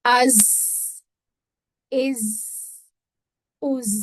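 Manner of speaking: अज, इज, उज with the final ज held briefly, not bounced; held, no echo. Shown as a demonstration. Teacher showing how to avoid qalqala. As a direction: let the ज in इज continue, no rebound. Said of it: "इनमें कलकला नहीं करना".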